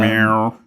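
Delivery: drawn-out imitated meow; cat meow. Podcaster slipping a silly noise into the chat, cat meow. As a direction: throw in a little cat noise. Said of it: "I like that noise".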